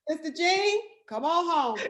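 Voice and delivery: playful high-pitched summons, laugh creeping in; jokey divine call; Jesus calling. Acted. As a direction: call her home in a teasing lilt. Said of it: "Jesus said".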